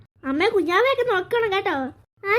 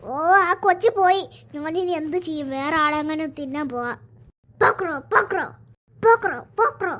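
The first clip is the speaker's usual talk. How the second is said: grumbling frog; 3 semitones lower than usual. Acted. Frog loses its prey.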